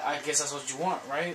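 normal talking voice

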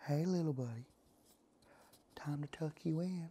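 soft, gentle ASMR-style whisper. After talking normally about echo in a high-ceiling room, the speaker switches to ASMR, whispering. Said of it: "now I am going to be whispering".

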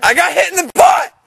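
very high, pained, hurting cry. Speaker just got hit hard with a stick and complains, in pain. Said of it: "I'm in pain".

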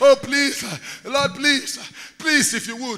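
imitated, put-on begging, pleading tone. Imitating believers who make declarations to the lord by begging: imitating a begging prayer. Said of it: "You make declaration, begging".

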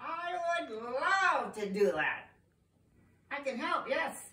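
storybook wizard character voice, soft and high. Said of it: "I am a wizard".

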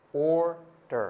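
American accent with full R and sounded D.

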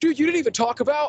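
high-pitched, complaining, whiny voice. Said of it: "I know people are gonna be like".

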